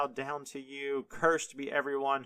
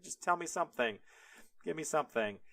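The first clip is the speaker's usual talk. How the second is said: wailing Esau; 4 semitones higher, 4 dB quieter, much faster than usual. Retold or imitated. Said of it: "as he wails".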